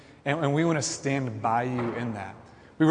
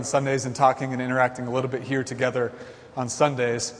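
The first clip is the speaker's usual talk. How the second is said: out of breath, catching breath midword; winded, pushing words out between breaths. Real, not acted. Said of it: "Sorry, I lost my breath".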